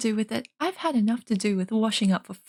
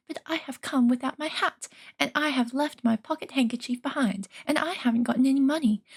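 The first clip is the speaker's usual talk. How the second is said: flustered hobbit; 4 semitones higher than usual. Acted. Bilbo flustered apology.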